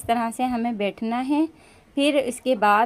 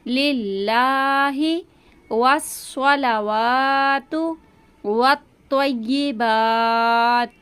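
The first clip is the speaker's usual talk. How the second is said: measured, drawn-out prayer recital; slow recitation; much slower than usual. Shown as a demonstration. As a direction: recite each word slowly for students. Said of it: "अल्लाह के नाम को हम बारीक पढ़ेंगे". (धीमी तिलावत)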